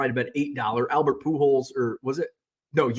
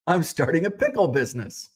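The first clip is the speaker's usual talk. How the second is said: laughing joke. Retold or imitated. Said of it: "And I'm like".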